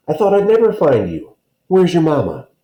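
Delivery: finally found him, let it spill; father overjoyed at finding his son; relieved father. Acted.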